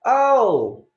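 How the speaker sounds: high, gushing put-on joy with laughter; exaggerated swooning phone enthusiasm; faked delight. Shown as a demonstration. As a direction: fake a thrilled phone chat, pitched high. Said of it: "Go like this".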